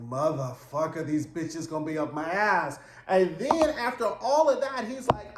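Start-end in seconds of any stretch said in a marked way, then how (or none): 0.1-2.8 voiced cursing friend.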